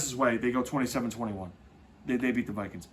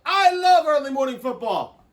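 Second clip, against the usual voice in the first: excited; 10 semitones higher, 7 dB louder than usual. Real, not acted. Hyped about early morning games.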